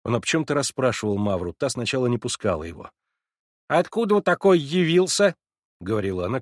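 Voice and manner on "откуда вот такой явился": put-on high, loud bossy old servant voice; commanding. A narrator's reading. Servant Mavra scolding Alyosha, commanding and loud. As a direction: lord it over the boy from the doorway. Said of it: "как власть имеющая".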